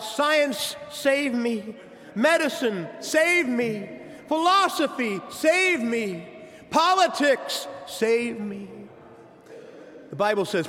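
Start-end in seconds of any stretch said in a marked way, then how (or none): 0.0-8.7 crying out. Retold or imitated. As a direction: beg each idol in turn, rising. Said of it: "they cry out".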